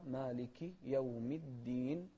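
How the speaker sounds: مالك slowly ending in -ki before يوم; slow down and sound the i of مالك; clear kasra. Shown as a demonstration. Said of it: "في الكسرة". (مالك بكسر الكاف بتمهل)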